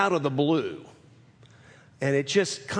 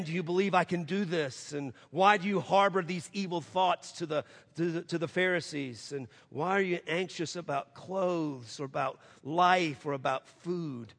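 soft, hushed questions; preacher quoting Jesus, hushed and tender; quiet questions; 6 dB quieter than usual. Acted. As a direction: let it sink in gently.

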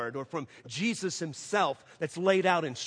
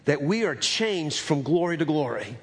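prayer; 2 semitones lower than usual. Acted. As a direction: pray it over the congregation, unhurried. Closing prayer before sermon.

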